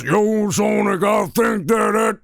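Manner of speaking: high, put-on sidekick voice; Tails. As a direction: pitch it up like an eager little sidekick. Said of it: "And Tails goes".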